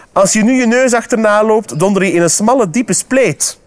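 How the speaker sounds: mocking frog. Frog sending squirrel toward thorn bushes, mocking high voice. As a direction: warn them with mock helpfulness.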